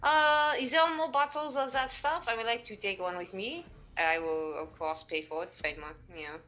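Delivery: lightly voiced polite French character; measured, polite French-accented speech; French-accented adventurer. Plays Olivier in character.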